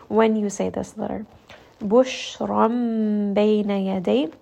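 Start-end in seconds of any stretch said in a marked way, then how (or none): 1.8-4.3 Quran recitation. Shown as a demonstration. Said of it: "Sheen is going to have tafashi".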